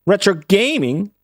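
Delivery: Aussie alert catchphrase; a hammed-up Australian jingle line; mock Australian alert. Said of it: "that's the alert".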